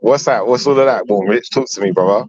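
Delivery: put-on Hackney accent. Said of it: "your Hackney, Hackney accent".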